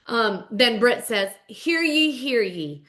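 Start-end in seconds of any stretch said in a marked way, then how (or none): 1.5-2.8 town crier. Retold or imitated. Britt opens an amendment in court, proclaiming like a crier. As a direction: call it out, then let it fall. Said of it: "calls court into session".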